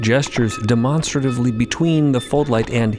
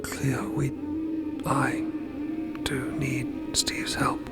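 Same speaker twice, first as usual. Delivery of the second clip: very soft, halting near-whisper; timid hushed admission; 7 dB quieter than usual. Acted. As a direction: admit it haltingly, barely voiced. Timid admission amid the quarrel.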